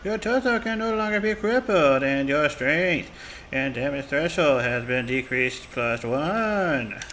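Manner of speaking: talking around gauze; gauze in mouth. Real, not acted. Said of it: "I have gauze in my mouth".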